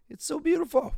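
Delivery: high, loud, breaking with tears; overcome, voice cracking upward; crying out how beautiful it is; tearful cry. Real, not acted. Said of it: "made me get all misty-eyed".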